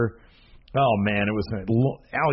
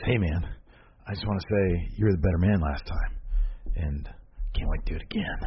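hushed menacing quote; 5 semitones lower, 5 dB quieter than usual. Retold or imitated. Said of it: "and says".

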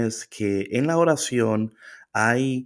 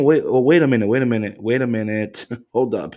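startled double take. Retold or imitated. Jesus realizing God is his father, mock startled. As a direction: act stunned, catching yourself mid-thought.

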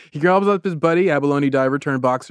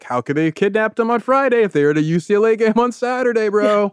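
mock-baffled, pitched up high; incredulous protest; 5 semitones higher than usual. Bystanders defending the kidnappers' alibi, high mock-incredulous protest. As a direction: argue it like a disbelieving bro.

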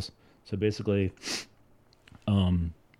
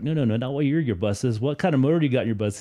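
louder, faster, fed-up question; exasperated; 5 semitones higher, 4 dB louder than usual. Retold or imitated. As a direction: repeat it with rising impatience. Customer repeats the question, exasperated.

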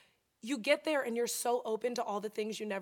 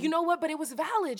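emphatic; 6 semitones higher, 6 dB louder than usual. Real, not acted. Emphatic aside.

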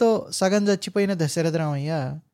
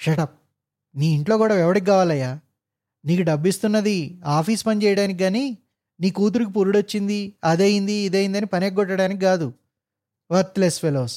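roaring rebuke; 2 semitones higher than usual. Acted. Officer roars at trembling clerk, angry rebuke. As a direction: thunder down at the old clerk. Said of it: "పిడుగుపడినట్టు గర్జించాడు".

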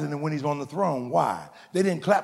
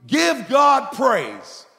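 loud, high, drawn-out exhortation; rousing call for praise; 8 semitones higher, 6 dB louder, much slower than usual. Shown as a demonstration. Preacher prompting the congregation to praise, loud rallying call. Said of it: "if I say to you".

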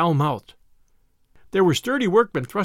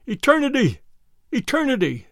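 bawling; 7 semitones higher than usual. A narrator's reading. Blind Salvation Army man to the crowd, bawling. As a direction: bawl it high like a street preacher. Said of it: "gesticulating with his crooked fingers and bawling".

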